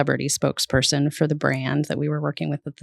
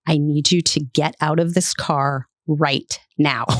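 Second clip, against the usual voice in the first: retold stern order. Retold celebrity ordering publicist out.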